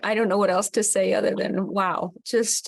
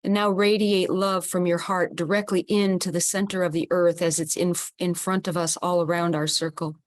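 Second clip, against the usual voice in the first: calm, steady guiding voice; guided visualization. Acted. Host guiding the group to hold hands, calmly. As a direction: lead the circle gently through the image.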